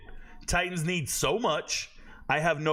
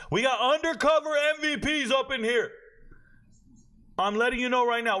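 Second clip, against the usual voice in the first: hyped announcement; 6 semitones higher than usual. Real, not acted. Hyping undercover MVPs in the chat, excited. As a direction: pump up the room.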